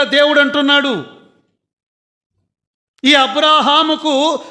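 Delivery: rising, fervent pulpit delivery; preaching at full force. Acted. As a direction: preach it out, climbing with each claim. Preaching climax.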